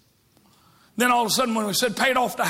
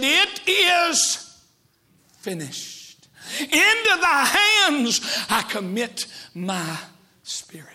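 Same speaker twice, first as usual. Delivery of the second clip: dying whisper; 2 semitones higher, slower than usual. Acted. Preacher voicing the dying Jesus, fading to a whisper. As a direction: breathe the last words out.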